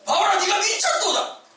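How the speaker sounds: high, loud accusing yell with a laugh; mock king's outburst; shouting. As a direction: shout that Paul has gone mad. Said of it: "소리 지르면서 말하니까".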